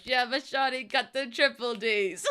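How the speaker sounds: slow, giggling delivery; laughing quote. Real, not acted. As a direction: laugh through the lyric. Quoting a song, laughing.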